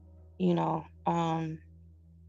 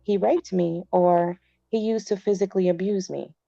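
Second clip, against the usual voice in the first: louder, steady book-reading voice; reading aloud; 3 dB louder than usual. Acted. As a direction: read the advice out clearly. Reads advice from a book.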